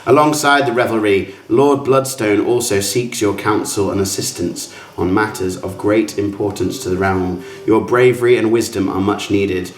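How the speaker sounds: grand, measured storyteller reading; formal invitation read-aloud. Acted. Game master reads adventurers a dinner invitation, formal and grand. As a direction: read out a lordly invitation with ceremony.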